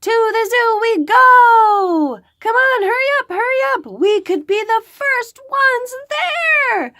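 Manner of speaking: high, loud eager rush; excited. Acted. Little girl hurrying mom to the zoo, high and excited. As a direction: bounce with can't-wait excitement. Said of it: "I think she's a little excited".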